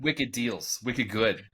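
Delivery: mock Boston accent, wicked drawn out. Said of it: "in a Boston accent".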